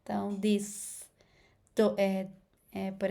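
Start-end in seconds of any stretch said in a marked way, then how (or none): 0.4-1.0 "this" with a buzzing, Z- or D-like TH at the start; voiced TH. Shown as a demonstration. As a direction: start "this" with a vibrating TH. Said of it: "de Z ou D ali no começo".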